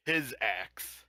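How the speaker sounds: HIS punched, not my; stress on HIS. Real, not acted. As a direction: hit the word His hard. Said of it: "not my axe".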